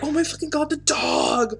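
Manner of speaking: high, hushed, awed gushing; a pack of kids melting over a puppy, breathless; kids gushing over the dog. Acted.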